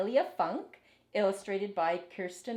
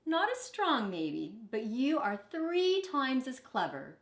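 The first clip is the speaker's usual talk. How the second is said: sensible nursemaid; 4 semitones higher than usual. Acted. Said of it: "said Emma sensibly".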